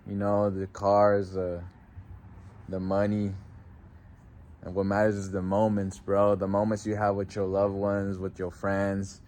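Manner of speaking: soft, heavy-hearted memorial words; grieving tribute. Real, not acted. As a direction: speak to a lost friend, low. Emotional tribute to late friend.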